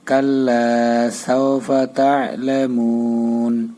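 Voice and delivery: verse chanted slowly and evenly; slow recitation. Shown as a demonstration. Teacher reciting the verse together with students. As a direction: draw every syllable out for the class. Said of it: "এখন মিলে আমরা".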